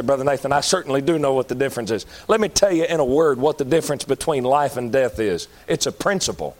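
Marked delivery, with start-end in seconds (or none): 0.0-2.1 imitated listener. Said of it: "You say".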